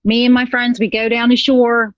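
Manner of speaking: a hint of Philly accent; casual Philly shore-town accent. Shown as a demonstration. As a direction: put on a light Philadelphia accent. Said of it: "You still do your Philly accent".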